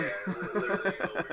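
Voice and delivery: laughing through the words; high, loud laugh while speaking. Real, not acted. Jokes that it's overkill.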